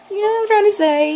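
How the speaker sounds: very high, loud, quick plea; pleading re-enactment. Retold or imitated. Flustered fan asks Ricky to understand, high quick plea. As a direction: squeak it out, begging to be understood. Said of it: "I'm just like".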